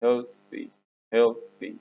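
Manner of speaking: "healthy" with its th shown clearly; th sound shown. Shown as a demonstration. Teacher drilling the class on "healthy", th demonstrated. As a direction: model the th in "healthy". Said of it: "في وال H بتنطق ب".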